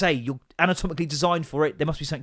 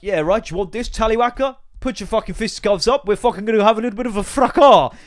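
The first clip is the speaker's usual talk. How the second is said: loud, higher-pitched hammed-up British fighter; badly dubbed film; 5 semitones higher, 6 dB louder than usual. Dubbing an American action scene into British, hammed-up brawler. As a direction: build to a shouted last word. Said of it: "badly dubbed films".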